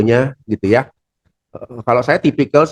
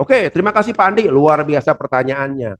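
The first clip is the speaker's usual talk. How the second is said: presenter warmly thanking Pak Andi for his question; enthusiastic thanks; 2 semitones higher than usual. Shown as a demonstration. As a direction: make the questioner feel valued. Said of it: "seperti saya contoh lah".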